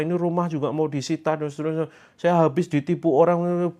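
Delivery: mock a client pouring out problems; long-winded complaint. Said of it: "Sudah cerita panjang".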